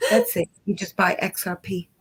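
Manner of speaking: mock California Valley-speak; lightly exaggerated California style. Shown as a demonstration. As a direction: put on a laid-back Californian accent. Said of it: "let me say it in California style".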